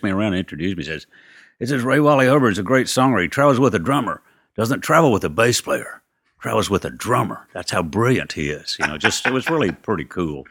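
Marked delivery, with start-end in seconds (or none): 1.6-8.8 lightly voiced famous drummer, higher and brighter than his own talk; a hint of an English drummer making introductions; imitating a famous drummer. The drummer introducing him around.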